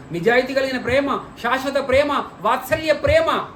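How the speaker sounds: stack each phrase on the last, swelling; preacher's list rising to a peak; building litany. Real, not acted.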